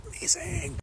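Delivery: small, high, soft squeak; mock delight. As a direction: squeak it softly in sarcastic delight. Sarcastic reaction to no privacy.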